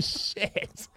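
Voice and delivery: whispered shit under the breath; whispered curse. Retold or imitated. Hurt driver cursing to himself in a whisper. Pain after steering.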